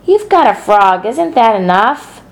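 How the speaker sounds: scolding. Acted. Fern scolding.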